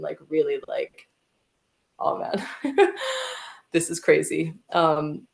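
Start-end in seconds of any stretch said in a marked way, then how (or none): 2.0-4.5 laughing in disbelief mid-phrase; elated laugh. Retold or imitated. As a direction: break into a giddy laugh between the words. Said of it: "I'm really elated".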